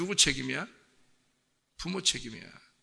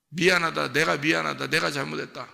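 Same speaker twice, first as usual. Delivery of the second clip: insistent apology, starting louder and easing off; apologetic parent; 4 dB louder than usual. Acted. Parent apologizing to a child who got punished, self-blaming. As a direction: blurt out an acted parental apology. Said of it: "그 부모의 마음이 그런 거예요".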